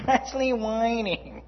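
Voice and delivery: laughing through the words. Shown as a demonstration. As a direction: chuckle while repeating it. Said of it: "repeated with laugh".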